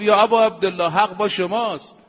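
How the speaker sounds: loud, earnest call to the Imam; loud earnest address. Acted. Companion calling out to Imam Husayn, loud and earnest. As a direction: declare it fervently.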